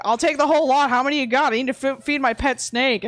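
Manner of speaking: lightly voiced pushy customer; imitating a blunt stranger's demand; imitated buyer. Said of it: "It's like".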